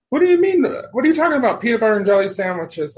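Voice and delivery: high, loud, baffled question; baffled mom. Retold or imitated. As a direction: play mom's alarmed disbelief at full pitch. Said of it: "and she says".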